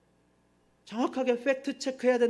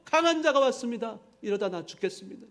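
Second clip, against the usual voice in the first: much higher and louder, a desperate plea; crying out in prayer; 5 semitones higher, 4 dB louder than usual. Acted. Preacher acting out king Asa's desperate loud prayer for help. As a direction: beg loudly like a king facing an army. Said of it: "부르짖어 기도합니다".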